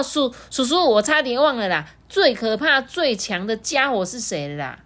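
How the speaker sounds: put-on high, sweet little-kid voice; a small dinosaur child, earnest and innocent; baby triceratops. Baby answers T-rex.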